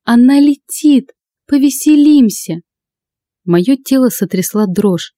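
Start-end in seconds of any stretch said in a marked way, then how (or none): 0.1-2.6 put-on gleeful yell of the drunk racer; ecstatic yell. A narrator's reading. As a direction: whoop it with wild joy. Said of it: "восторженный вопль Лады".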